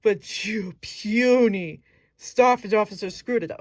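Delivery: hissed, slow villain whisper; scornful whisper. Shown as a demonstration. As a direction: breathe the insult out with contempt. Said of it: "I wanna emphasize that puny".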